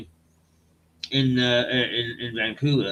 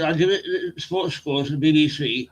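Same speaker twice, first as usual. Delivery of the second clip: put-on Black Country accent. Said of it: "black country accents".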